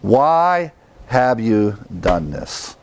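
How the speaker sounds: slow, level, inward; reflective self-question. Shown as a demonstration. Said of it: "ask ourselves that question".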